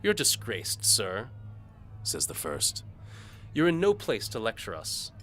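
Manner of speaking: high, loud rebuke; scornful nobleman. A narrator's reading. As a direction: put him in his place.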